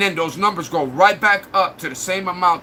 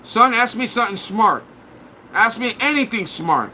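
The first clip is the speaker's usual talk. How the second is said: imitating the mom; 4 semitones higher than usual. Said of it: "what they asked their mom".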